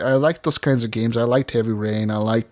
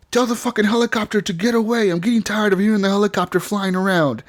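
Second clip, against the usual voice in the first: higher-pitched frustrated outburst, retold; 8 semitones higher than usual. Player retelling the robot's helicopter demand, mock frustration. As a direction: imitate someone fed up and giving an order. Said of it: "he was getting frustrated".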